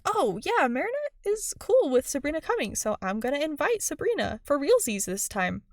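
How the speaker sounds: bubbly upbeat announcement; imitating Zoe. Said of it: "And then Zoe is like".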